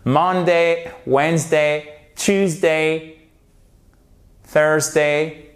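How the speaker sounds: each day named slowly, its first syllable stressed. Shown as a demonstration. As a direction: lean on the start of each weekday. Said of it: "toujours sur la première syllabe". (accent sur la première syllabe de chaque jour)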